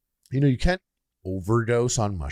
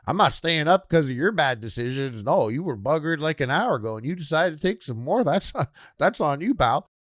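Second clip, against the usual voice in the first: Canadian party person; 5 semitones higher than usual. Retold or imitated. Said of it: "some Canadian party people".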